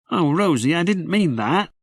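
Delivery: put-on high, puzzled little-boy voice; a small child wondering aloud; small boy Jim. Little Jim asks his sister why it's dark, high boy's voice. Jim's voice.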